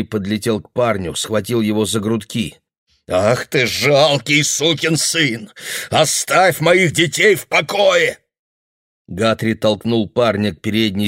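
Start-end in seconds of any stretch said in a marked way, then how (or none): 3.1-8.2 furious. Acted. Guthrie grabbing the boy, furious. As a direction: spit the insult out.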